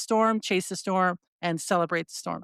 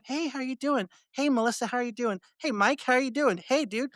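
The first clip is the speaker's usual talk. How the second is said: bright, higher, friendly hellos to each person; cheery greetings; 5 semitones higher than usual. Retold or imitated. Imitating a friend greeting people at the chase, cheery. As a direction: greet everyone like an old friend, lightly mimicked. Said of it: "you'll go up".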